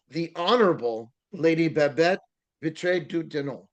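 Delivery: French accent. Shown as a demonstration. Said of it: "I have a terrible French accent".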